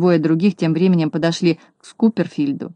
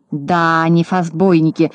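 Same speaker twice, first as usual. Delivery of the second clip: grumbling; slower than usual. Acted. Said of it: "проворчал Скуперфильд".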